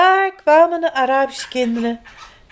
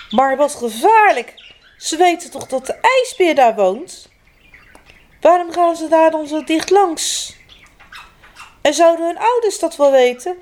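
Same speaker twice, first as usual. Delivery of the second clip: worried grandma; 5 semitones higher than usual. Acted. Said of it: "jammerde omaatje".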